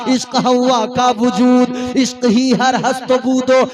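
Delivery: rhythmic, declaiming religious verse; poetic recitation. Acted. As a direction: recite it like a preacher's poem.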